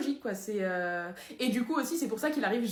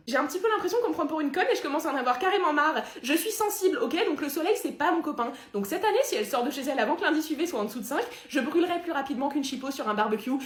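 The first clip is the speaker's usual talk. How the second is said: fed-up rant; 2 semitones higher than usual. Acted. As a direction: rant like someone who has had enough. La peau, excédée, râle en réunion.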